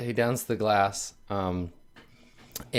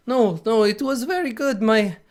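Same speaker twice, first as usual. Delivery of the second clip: higher voice that trails away unfinished; a touch of grief; trailing off; 11 semitones higher than usual. Acted. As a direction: let the praise fade out sadly. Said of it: "he kinda trails off".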